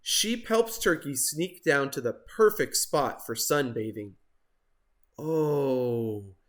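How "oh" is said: contented gobble. Acted. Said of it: "gobbled Turkey".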